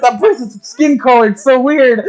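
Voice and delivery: high, loud gawking wonder; awestruck. Acted. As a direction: gape at everything, high and loud. Margaret marvelling in character.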